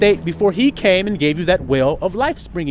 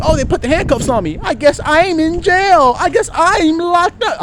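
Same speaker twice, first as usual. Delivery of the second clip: mock resigned prisoner; 13 semitones higher, 7 dB louder than usual. Mocking resigned prisoner self-talk.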